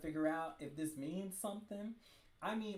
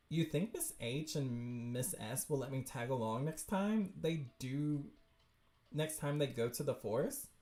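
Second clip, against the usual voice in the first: lower, plainer character read; corrected character voice; 4 semitones lower than usual. Acted. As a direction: ask in the lower, more level voice. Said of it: "that's her".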